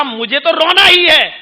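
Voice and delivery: a hint of a fretting bird; pigeon complaining. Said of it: "تو کبوتر بولا".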